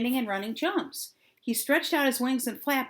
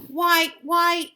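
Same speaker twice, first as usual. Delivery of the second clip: yawning; 6 semitones higher, 6 dB louder than usual. A narrator's reading. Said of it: "yawned Timothy".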